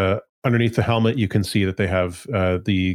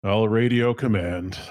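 calm; slower than usual. Acted. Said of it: "He's so calm".

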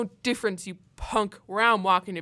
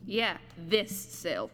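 eerie ghost voice; 4 semitones lower, much slower than usual. Acted. Ghost reveals the cell.

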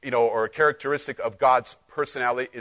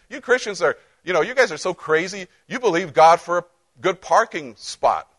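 mocking skeptic; 5 semitones higher, 3 dB louder than usual. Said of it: "some people say".

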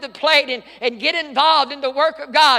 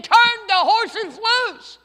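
higher, louder, slow yell; screaming; 9 semitones higher, 4 dB louder, much slower than usual. Retold or imitated. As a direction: scream the order. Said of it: "They were screaming".

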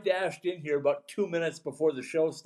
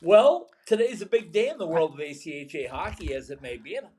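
echoey room. Real, not acted. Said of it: "you're a little bit echoey".

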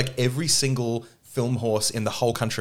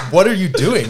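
a high, loud, mock-startled question; a hammed-up cry of confusion; retold surprised question; 7 semitones higher, 8 dB louder than usual. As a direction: play the stunned crew asking. Crew retold reacting to director.

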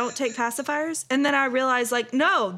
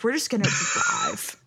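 dazed singsong. Retold or imitated. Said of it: "and I was like".

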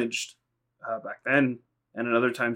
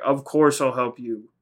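slow, louder, restrained mock shout; retold mock yell; 5 dB louder than usual. Luffy screaming up to the sky, retold as a mild yell. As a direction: draw out a half-hearted yell. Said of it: "he screams up to the sky".

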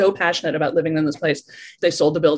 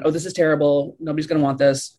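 a touch lower, grumbling inner critic; 4 semitones lower than usual. Retold or imitated. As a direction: mutter it like the voice that doubts your work. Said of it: "when that voice starts going".

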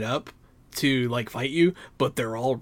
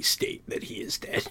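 whisper; 10 dB quieter than usual. Acted. Deadpan whispered punchline.

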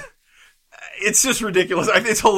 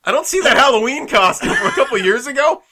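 higher, fast, laughing mock report; laughing, rambling mock report; 6 semitones higher than usual. Husband picturing himself describing the lost daughter, laughing. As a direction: rattle it off, cracking up. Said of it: "and you're like".

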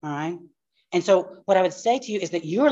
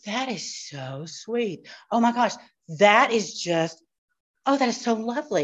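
touched; 4 semitones higher than usual. Retold or imitated. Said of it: "And I thought".

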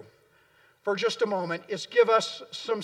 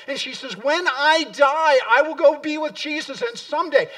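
louder, higher, building on someday, then dropping away on again; a martyr's defiant hope, growing louder; triumphant declaration; 5 semitones higher, 6 dB louder than usual. Retold or imitated. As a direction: proclaim it with rising conviction. Perpetua declaring her hope of resurrection.

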